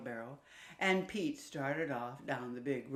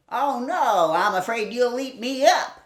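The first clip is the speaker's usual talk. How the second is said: scared piglet; 7 semitones higher, 13 dB louder than usual. Acted. Piglet afraid of wolf.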